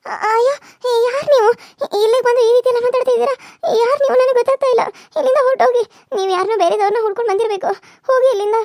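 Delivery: high, loud panicked cries; frightened shouting. Acted. Raji, woken in hospital, yells at a stranger to leave, frightened shout. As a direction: drive the stranger out in a scared yell. Woman startled by intruder at bedside.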